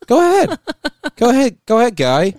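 loud high goading; egging him on, shouting; taunting yell. Acted. Taunting friend to do bit.

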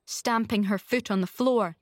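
plain reading voice

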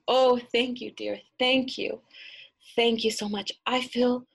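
effusive crone turning sly; old grandmother gushing thanks, then quick and cunning; grateful grandmother. Acted.

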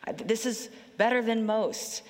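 lightly voiced shepherd pleased with his count; a hint of a self-satisfied shepherd; content shepherd. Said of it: "ninety-nine sheep and go".

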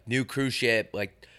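slow, spaced-out mock ad read; lightly voiced announcer, dragging out each feature; mock cruise advertisement. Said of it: "they always try to, like, wow you".

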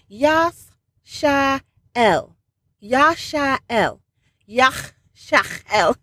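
Yashael sounded out slowly as yah-SHAH-el; careful Hebrew name. Shown as a demonstration. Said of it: "The H is tricky".

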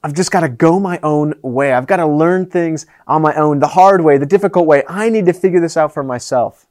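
a touch of a stubborn teenager, lightly voiced; mildly defiant, insisting on going it alone; understated rebellious teen. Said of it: "We kinda take on that rebellious tone".

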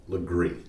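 Legree ending in a long "ee"; local pronunciation. Shown as a demonstration. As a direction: say Legree as "luh-GREE". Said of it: "but it is pronounced".

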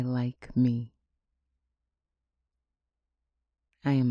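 firm declarative affirmations, each line proclaimed; booming motivational speech. Shown as a demonstration. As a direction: say every I am with conviction. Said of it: "Repeat after me".

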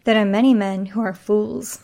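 put-on novel hero in a Scottish accent; lightly voiced Scotsman. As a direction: answer with a light Scottish lilt. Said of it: "I gave him a Scottish accent".

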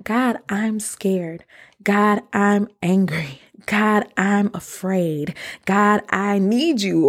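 slow, confessing each feeling to God; slow honest prayer. Retold or imitated. Speaker confessing fears to God in prayer, slow and earnest. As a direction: pause after each God, let it weigh. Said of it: "be honest with my feelings ... with God".

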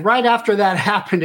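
laughing. Real, not acted. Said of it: "it was kind of funny".

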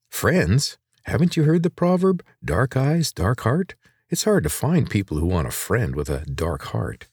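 lightly voiced girl, a touch bitter. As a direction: scoff at the idea of friends. Girl bitter about friends.

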